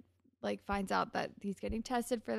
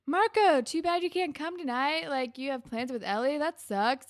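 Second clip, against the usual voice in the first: mock pity; 6 semitones higher, 5 dB louder than usual. Craig and Jimmy mocking Marco.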